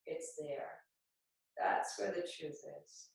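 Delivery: steady yoga-teacher guidance, pausing between phrases; guided meditation. Acted. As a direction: guide them gently through breath and movement. Guides seed and heart meditation.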